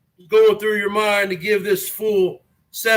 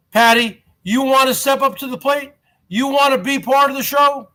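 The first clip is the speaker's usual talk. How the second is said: calling out; 3 semitones higher than usual. Real, not acted. Calls out a viewer.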